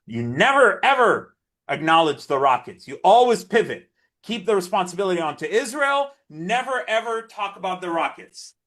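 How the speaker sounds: a touch of an indignant lecture; mimicked scolding. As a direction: imitate an activist telling him off. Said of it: "he was like".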